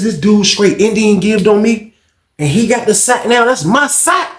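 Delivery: high-pitched, incredulous complaint; indignant protest. Retold or imitated. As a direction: protest like you've been cheated. Acted outrage over his sack.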